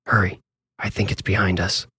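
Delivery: soft, hushed warning; urgent whisper. A narrator's reading. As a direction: whisper it so nothing behind hears. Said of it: "He whispered".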